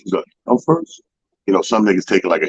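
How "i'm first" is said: mock surprise. Bubba surprised at going first.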